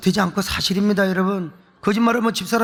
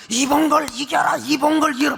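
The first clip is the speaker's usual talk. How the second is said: mock loud cheering; 4 semitones higher than usual. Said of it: "무식하게 응원을 하고 있는 거예요".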